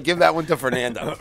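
said through a laugh. Retold or imitated. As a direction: chuckle the line out. Retold quip with laugh.

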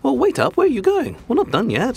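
wait, don't leave; calling after him. Acted. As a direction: shout after him to come back. Host calling after departing guest.

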